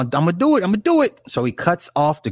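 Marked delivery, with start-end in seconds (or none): 0.0-0.6 steady, sure, a little raised; a first, measured I'm gonna do it; firm resolve. Retold or imitated. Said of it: "Gawain was like". 0.6-1.2 I'm gonna do it, pitched way up and rising; fired-up resolve. Retold or imitated. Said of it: "Gawain was like".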